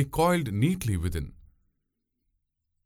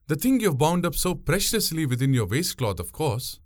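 put-on much higher young woman's voice, sly; probing; 6 semitones higher than usual. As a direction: fish for his secret innocently. Pungureli reveals she noticed.

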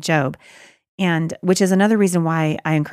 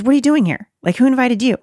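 higher and louder, mocking "What are you doing here?"; sarcastic; 6 semitones higher, 4 dB louder than usual. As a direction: sneer at the uninvited guest. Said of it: "the sarcasm in the voice of God".

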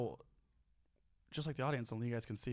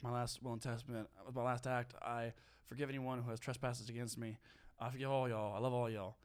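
fading, softer last words of a dying man; mock deathbed farewell, trailing off; 3 semitones lower, 5 dB quieter than usual. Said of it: "when I'm pretending I'm dying".

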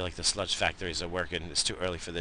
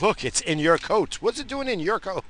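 mock surprise; 10 semitones higher than usual. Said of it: "I was like".

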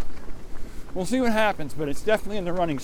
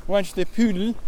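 mock French accent, higher pitch; Inspector Clouseau; 4 semitones higher than usual. Pun on Monty Python talk, Clouseau's French accent. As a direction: mangle "poodle" in a French accent. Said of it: "Inspector Clouseau would say".

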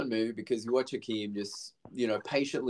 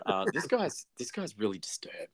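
whispered aside about the guy; mock hushed guard; 4 dB quieter than usual. Security guard murmuring on the dance floor, mock hushed. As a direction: breathe it like a nervous guard.

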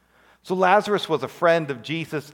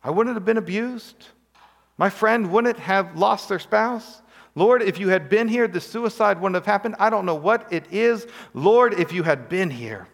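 pleading complaint to Jesus; 5 semitones higher than usual. Retold or imitated. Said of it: "Have you said that before to Jesus?".

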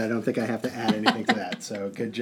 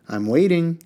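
raised, severe prompt; 7 semitones higher, 4 dB louder than usual. A narrator's reading. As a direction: press him sternly for an answer. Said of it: "said Harun severely".

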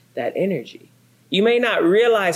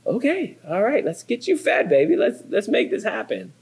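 soothing; 5 semitones higher than usual. Retold or imitated. Husband calming hungry wife.

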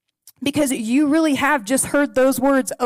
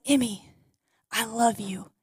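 softer, tender I love you; 3 semitones lower, 7 dB quieter than usual. Retold or imitated. Aunt telling her niece she loves her, soft and tender. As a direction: say it gently up close.

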